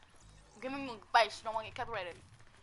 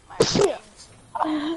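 mock crying; 5 semitones higher, 9 dB louder than usual. Mock wail over lost item.

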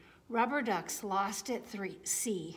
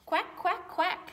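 high, louder little quacks; ducklings quacking; 9 semitones higher, 4 dB louder, slower than usual. Acted. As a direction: chirp them like tiny ducklings. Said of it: "say the ducklings".

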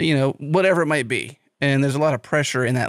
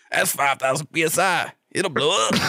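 mock warning yell, pitch climbing; retold holler rising at the end; imitating a yell. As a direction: call out an urgent warning, lightly hammed-up. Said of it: "the guy yells at him".

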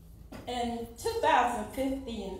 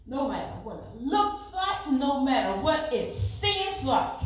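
rising, building divine command; preacher voicing the Lord's words to her; 4 semitones higher, 5 dB louder than usual. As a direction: lift it up as God speaking. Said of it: "I heard the Lord speak to me".

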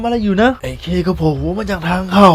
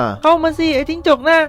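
taunting; 8 semitones higher than usual. A narrator's reading. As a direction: lure the beast in with a sneer. Daughter taunts crocodile into bathroom.

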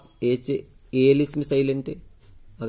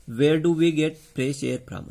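Where do we get fresh air from? spoken very slowly, word by word; dictation pace; much slower than usual. Shown as a demonstration. Teacher dictates an exam question to pupils, very slowly. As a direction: read it out slowly so pupils can write it down. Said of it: "question आपके exam में आते रहते हैं".

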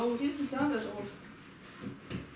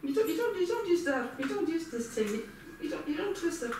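higher, agitated repeated objection; exasperated correction; 4 semitones higher than usual. Real, not acted. Telling a companion not to twist it, exasperated. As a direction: stumble over repeats in real impatience.

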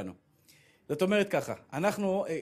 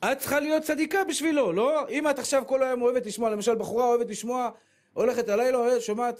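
raised preaching voice; 6 semitones higher, 4 dB louder than usual. Real, not acted. Rabbi scolding young women.

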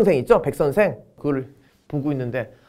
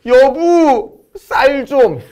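mock crying; 8 semitones higher, 4 dB louder, much slower than usual. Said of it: "울면서".

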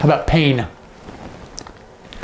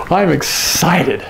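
slow, drawn-out show of excitement; demonstrated excitement; 2 semitones higher, slower than usual. Shown as a demonstration. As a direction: stretch it out with mock excitement. Acts out the sign excited.

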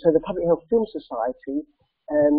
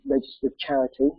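croaky voice. Real, not acted. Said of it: "excuse my croaky voice".

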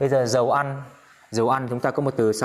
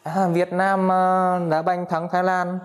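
excited; 6 semitones higher than usual. Acted. Vietnam beats Thailand at football.

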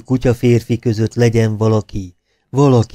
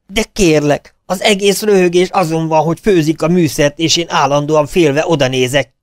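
high, loud irritated complaint; irritated, near falsetto; 6 semitones higher, 4 dB louder than usual. A narrator's reading. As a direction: fume at the director in a strained high voice. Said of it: "Ingerültem, szinte fejhangom".

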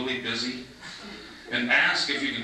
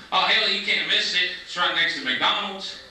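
small-town local; 7 semitones higher than usual. Retold or imitated. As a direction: play the helpful country guy, pitched up. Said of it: "the guy looks at me and goes".

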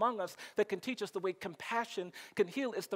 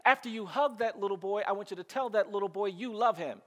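insistent mother; 3 semitones higher, 5 dB louder than usual. Retold or imitated. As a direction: stop the child and lay down the order. Mother stops him, adds another order.

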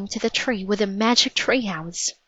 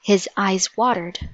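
ordinary delivery, nothing marked

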